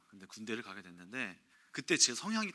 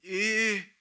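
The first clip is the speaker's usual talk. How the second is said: loud military yes; 9 semitones higher, 9 dB louder than usual. Retold or imitated. Recruit answering senior loudly.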